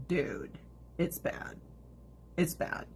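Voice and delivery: soft, subdued retold warning; hushed-down quote of a veteran; grim warning. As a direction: drop the volume as the cousin confiding. Voicing veteran cousin's grim warning.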